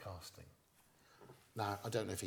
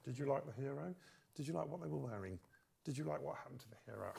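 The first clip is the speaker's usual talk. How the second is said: higher, mock questionnaire voice; survey questions; 4 semitones higher, 4 dB quieter than usual. Comic mimicking an audience test-screening form. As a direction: read the test card like a form. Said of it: "they give a piece of paper".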